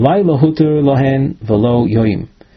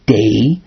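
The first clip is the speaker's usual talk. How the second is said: day set apart by pauses; stress on day. Shown as a demonstration. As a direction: isolate and lean on the word day. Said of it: "emphasizing the word".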